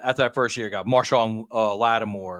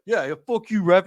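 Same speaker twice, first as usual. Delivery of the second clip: higher-pitched mock of his buddy cursing the ref; imitating his friend; 7 semitones higher, 3 dB louder than usual. Teasing his co-host, mock high voice cursing the ref. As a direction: tease him with a squeaky imitation. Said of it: "you're like".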